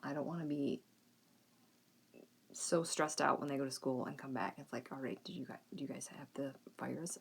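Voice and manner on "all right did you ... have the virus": hushed, worried questions under the breath; anxious whisper. Retold or imitated. A mother quietly fretting over her kids coming home sick, hushed. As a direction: whisper the fears like a nervous parent. Imagined worry on school pickup.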